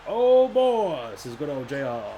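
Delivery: high, excited ringside commentator; wrestling commentary. Acted. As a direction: hype up the title match like a commentator. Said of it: "I have to do the commentary".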